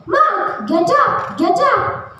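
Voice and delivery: high-pitched calling out across the field; mom cheering from sidelines. Retold or imitated. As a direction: call him like an excited mom at the game. Mom cheering at football game.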